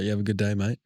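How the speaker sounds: mildly patronizing send-off. Retold or imitated. Traveller to toilet attendant on leaving, mildly patronizing. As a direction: say goodbye with understated condescension. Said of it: "Like, real patronizing dude".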